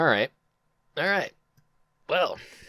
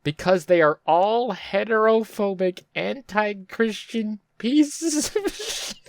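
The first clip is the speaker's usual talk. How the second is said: laughing reread; 8 semitones higher, slower than usual. Real, not acted. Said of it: "I really need to read that again".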